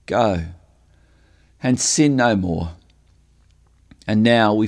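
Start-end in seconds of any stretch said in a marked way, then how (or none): 0.1-2.7 gentle shepherd's tone. Retold or imitated. Jesus to the broken woman, gentle and kind. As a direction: speak it like a tender shepherd. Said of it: "with a very gentle shepherd's tone of voice".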